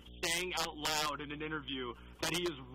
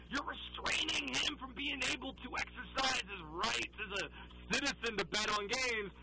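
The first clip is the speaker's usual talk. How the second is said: mocking apologist; 5 semitones higher than usual. Continues mock defence of betting.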